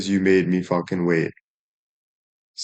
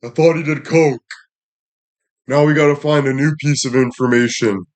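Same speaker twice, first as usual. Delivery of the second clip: mocking the haters; 4 semitones higher than usual. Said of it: "the haters' eyes like this".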